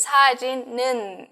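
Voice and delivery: 사진은 with a linked "neun" ending; linked pronunciation. Shown as a demonstration. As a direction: say 사진은 as sa-jin-neun, the n carried over. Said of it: "El 는 de la pronunciación viene por".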